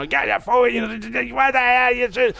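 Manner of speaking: very high, put-on ranting neighbor; imitating the neighbor yelling upstairs; mock old-man yelling. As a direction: screech like the cranky old neighbor. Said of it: "he's screaming and fucking yelling".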